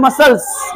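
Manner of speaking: "मसल्स" as "ma-sals"; falling model "मसल्स"; silent c. Shown as a demonstration. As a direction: say "मसल्स" with no k sound. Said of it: "सी silent".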